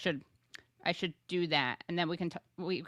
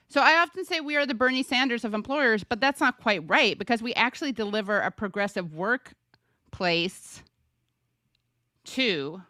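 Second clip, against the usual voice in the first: Regina George voice. Retold or imitated. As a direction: read it like the queen bee of school. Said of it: "you kinda read that in a Mean Girls voice".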